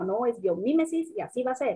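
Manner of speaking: put-on biomimesis with the accent on MI, bio-MÍ-mesis; stress on the I. Guest quotes the institute's ruling on the term, stress on MI in biomimesis. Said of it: "con acento en la I".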